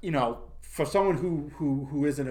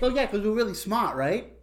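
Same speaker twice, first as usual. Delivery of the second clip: mock Vietnamese accent; 8 semitones higher, 4 dB louder than usual. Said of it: "faking the Vietnamese accent".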